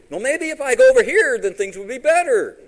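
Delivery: very loud, high mock reasoning; mocking rationalizing. Preacher mimicking people who dodge God, loudly mocking. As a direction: belt out the excuse with pitch way up.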